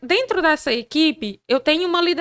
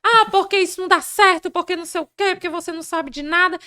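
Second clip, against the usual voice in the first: higher-pitched mock complaint; mock angry worker; 4 semitones higher than usual. Worker confronting the new boss, mock angry outburst. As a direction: imitate a worker coming in arguing. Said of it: "Ele já chega gritando, principalmente peão".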